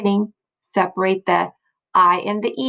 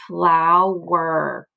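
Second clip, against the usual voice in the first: "flower" stretched as "flow-wer"; "flower" with its "er" held as its own syllable; split into syllables. Shown as a demonstration. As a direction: sound out "flower" in two drawn-out parts. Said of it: "that E R stays together".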